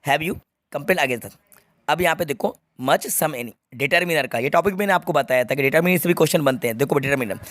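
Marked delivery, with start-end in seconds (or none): 0.0-1.4 completed version read out slowly; slow reading, completed sentence. Shown as a demonstration. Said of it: "मैं इसको पूरा कर देता हूँ". (पूरा वाक्य धीरे पढ़ना)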